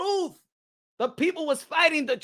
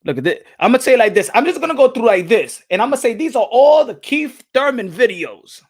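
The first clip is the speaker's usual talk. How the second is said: loud, excited showing off; hyped; 9 dB louder than usual. Real, not acted. Streamer showing his Thurman videos to chat, loud. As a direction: shout it out like a proud reveal.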